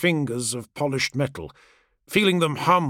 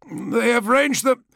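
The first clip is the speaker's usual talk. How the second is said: high, raised report cut short; involuntary outburst; 10 semitones higher, 4 dB louder than usual. A narrator's reading. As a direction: blurt the warning until interrupted. Failed speech, compulsive words again.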